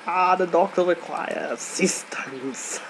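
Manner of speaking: put-on German-accented medic line, a touch theatrical; Medic quote. Gamer quoting his favourite TF2 Medic line in mock German accent. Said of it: "I love his, his, um, quotes".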